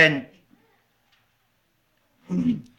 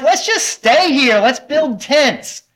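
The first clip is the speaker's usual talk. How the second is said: a touch of eager excitement, higher; excited Peter; 5 semitones higher than usual. Retold or imitated. Peter at the transfiguration, mildly excited. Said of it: "He's like".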